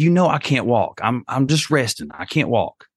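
father imitating his daughter saying she can't walk; child's voice. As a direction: lightly voice a resting small daughter. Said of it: "She said".

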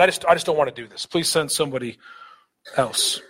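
fast, reluctant everyday grumble; casual whiny paraphrase. Shown as a demonstration. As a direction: blurt it like a kid dodging a chore. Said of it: "Kind of all shows aside".

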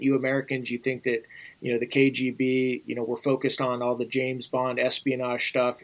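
put-on a light thick Russian accent. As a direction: slip into a faint Russian accent when quoting. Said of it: "he says with his thick Russian accent".

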